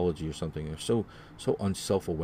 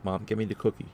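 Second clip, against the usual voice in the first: put-on demanding child; 2 semitones higher than usual. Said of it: "Moment passes".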